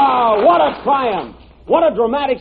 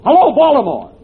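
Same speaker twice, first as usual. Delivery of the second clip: calling out; 4 dB louder than usual. Acted. Calling into the first telephone.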